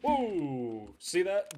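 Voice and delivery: loud, high, startled outburst; startled shout. Real, not acted. Gamer nearly shot, loud startled shout of surprise. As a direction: shout it as a bullet flies past. Bullet just missed him.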